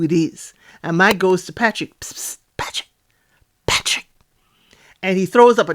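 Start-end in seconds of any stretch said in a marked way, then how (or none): 2.0-4.1 hushed "psst" to get attention; secretive whisper. Retold or imitated. Mike secretly calling over to Patrick, stage whisper. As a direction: whisper a name across the room on the sly.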